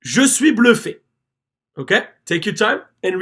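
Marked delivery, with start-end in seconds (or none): 0.0-1.0 Je suis bluffé at a brisker, natural pace; quicker repeat of Je suis bluffé; a little quicker. Shown as a demonstration. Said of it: "This time we're gonna try to do it a little quicker".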